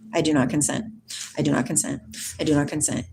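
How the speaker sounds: low, steady repeated mantra; calm affirmation. Shown as a demonstration. Showing viewers the mantra to repeat, low and steady. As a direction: chant it quietly as practice. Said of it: "Just start practicing that".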